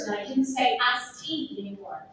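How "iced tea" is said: "iced tea" in a Southern drawl, the vowel of "iced" flattened; demonstrating a Southern "iced tea". Shown as a demonstration. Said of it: "the Southern drawl".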